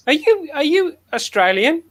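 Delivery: high, loud mock suspicion; retold TV character. Friend retelling a comedy scene, quizzing crew member. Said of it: "He says".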